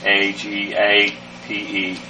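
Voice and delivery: agape spelled slowly, letter by letter; slow spelling. Shown as a demonstration. Teacher spelling agape slowly for the class. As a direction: spell it out one letter at a time.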